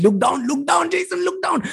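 high, gentle voice of God calling. Retold or imitated. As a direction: call him to look down, lifted high. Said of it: "God's like".

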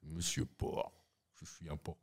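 exaggerated Quebec French accent, low and soft. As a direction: put on a Québécois accent. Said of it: "J'arrête d'imiter les Québécois".

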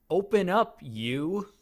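hesitant come-on with an awkward gap; awkward, timid imitation. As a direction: imitate a stilted, unsure coaxing. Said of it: "sounds like she's afraid to talk to him".

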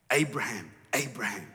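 low, unhurried name-calling; God's intimate call, pitched low. Acted. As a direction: call each name tenderly, letting it fall. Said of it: "it's really intimate".

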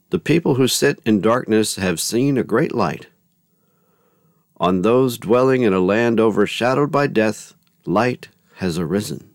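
measured proclamation of a gospel verse; scripture reading. A narrator's reading. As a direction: read it out to a congregation. Reads the gospel acclamation.

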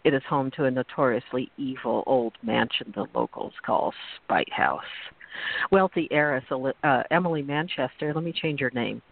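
purple prose reading. Acted. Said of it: "I'm going to read it as purple as possible".

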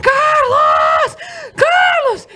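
very high, drawn-out panicked yell; hammed-up scream for help; imitated mother screaming. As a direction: yell for the husband in mock terror. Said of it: "Começou a gritar, assim".

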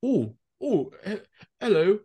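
mimicking a friend's little Nebraska accent; slight Nebraska accent. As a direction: imitate a faint Nebraska twang. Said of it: "he had this little accent".

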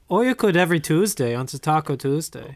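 put-on German accent; bad German accent. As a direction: say it as a comic German. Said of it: "this really bad German accent".

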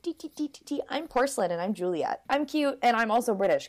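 lightly voiced dainty little gnome Juliet; cutesy gnome girl. Teller voices Juliet introducing herself, cutesy gnome girl. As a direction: play her cute and British, lightly. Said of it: "and she's like".

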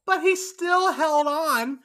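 excited. Real, not acted. Excited emphasis.

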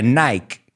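"Nike" as one syllable, rhyming with bike; "Nike" pronounced "nyke"; British-style pronunciation. Shown as a demonstration. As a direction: say "Nike" with a silent e. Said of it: "los británicos dicen Nike".

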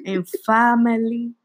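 lightly voiced mom greeting. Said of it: "it turned into my mom real quick".

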